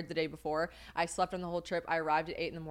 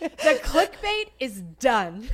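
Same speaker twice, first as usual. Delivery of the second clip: mock solemn; 3 semitones higher, 8 dB louder than usual.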